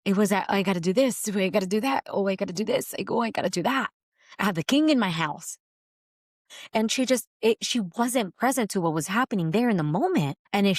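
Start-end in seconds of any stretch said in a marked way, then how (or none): 0.5-5.6 anxious Martha. Retold or imitated. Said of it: "confronted for anxious striving".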